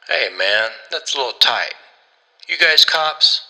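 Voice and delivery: protest, rising into a nervous question; anxious petty thief, voice climbing; complaining captive. Acted. Tied-up thief complains to captors.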